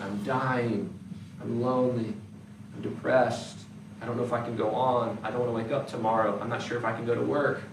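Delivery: low, soft hidden despair; inner despair. Retold or imitated. Churchgoer's hidden inner voice, soft and low despair. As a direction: let the inner voice sink, soft and heavy.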